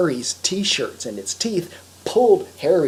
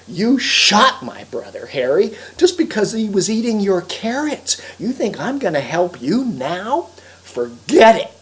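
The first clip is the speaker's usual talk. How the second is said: indignant woodchuck; 3 semitones higher, 4 dB louder than usual. Acted. Woodchuck refuses Harry over his shot brother, indignant calling. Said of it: "the woodchuck called".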